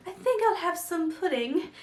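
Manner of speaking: a hint of airy character voice, soft; Luna Lovegood. Imitating a favorite character wanting pudding, soft and airy. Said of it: "She's like".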